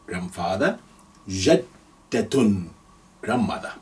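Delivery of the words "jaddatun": "Jaddatun" drawn out very slowly, doubled d; slow careful "Jaddatun"; slow demo. Shown as a demonstration. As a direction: spell out "Jaddatun" slowly for learners. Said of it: "So we have jaddun".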